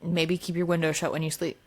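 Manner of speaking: threatening. Acted. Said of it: "that sounded aggressive".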